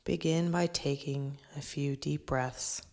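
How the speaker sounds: measured breathing-exercise instruction, falling at phrase ends; guided meditation. Acted. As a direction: guide listeners into the present, phrase by phrase.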